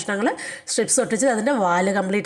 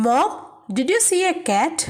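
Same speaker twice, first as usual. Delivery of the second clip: Clint asking mom; 5 semitones higher, much slower than usual. Acted. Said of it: "Clint".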